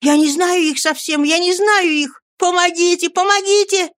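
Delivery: very high, frantic cries; desperate scream for help. Acted. Oliver struggles in a man's grip, screaming for help. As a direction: scream as if dragged away. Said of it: "кричал Оливер".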